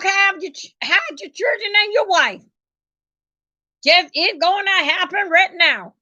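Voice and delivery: lightly voiced news anchor sounding the alarm; mock newscaster warning. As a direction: announce the hurricane like a frantic TV warning. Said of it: "the police and news people say".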